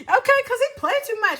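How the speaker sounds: laughing through the words. Real, not acted. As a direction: crack up while explaining.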